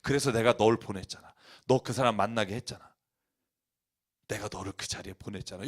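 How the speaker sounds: low voice of God, softening; God's voice. Acted. God reminds believers He sent them, low calm divine voice. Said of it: "그 음성이 들려야 된다니까요".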